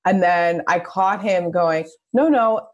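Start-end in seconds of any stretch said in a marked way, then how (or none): 2.1-2.7 gentle, lifted no, no; nicely. Retold or imitated. Dad gently telling baby girl no, lifted and kind.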